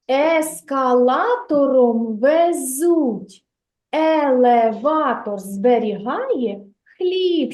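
put-on slow, measured rhyme for children; recited rhyme. Shown as a demonstration. Teacher recites a rhyme to first graders, slow. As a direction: recite the rhyme steadily, each line set apart. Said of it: "teacher recites a rhyme".

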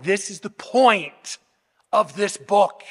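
slow, weighty stress on "point"; deliberate, hammered-home conclusion; emphatic. Real, not acted. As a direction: draw out "point", then pause before "of this book". Declares the passage the book's highlight.

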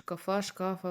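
шкафа said twice, trying the stress again on the first syllable; stress correction. Shown as a demonstration. Streamer apologizing to viewers for the stress in шкафа, quiet correction. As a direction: repeat шкафа, correcting where the stress falls. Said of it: "вибачте за наголос".

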